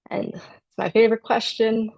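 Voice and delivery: dry sarcastic tone. Acted. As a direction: say it with light irony. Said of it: "I'm being a little sarcastic".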